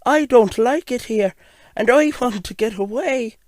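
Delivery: high-pitched little engine, wanting out; high storybook engine voice; gold engine. Acted. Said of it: "the gold engine replied".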